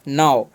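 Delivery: नाव as one low syllable, "naa-v" for NOW; pronunciation of नाव. Shown as a demonstration. Teacher answers how NOW is read, low model pronunciation of नाव. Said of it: "इसे हम क्या पढ़ते हैं".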